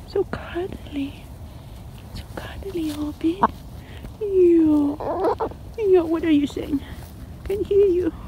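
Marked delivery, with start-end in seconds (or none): 0.1-3.4 whisper. Real, not acted. Fond whisper to the bird.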